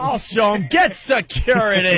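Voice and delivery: mocking yell, drawn out at the end. Host mocking the embarrassing shock jock, mock yell. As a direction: imitate a tough guy's slow yell. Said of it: "and he's yelling".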